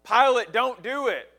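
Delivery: a worried wife begging her husband; pleading wife. Retold or imitated. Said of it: "His wife was telling him again and again".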